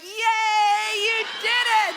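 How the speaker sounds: put-on high, loud baby-talk cheer; praising a toddler. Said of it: "I'm like".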